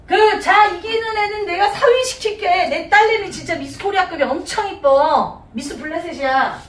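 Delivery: hammed-up king offering a prize; mock royal proclamation. Acting the king's reward proclamation. (과장해서 선포하는 왕 말투)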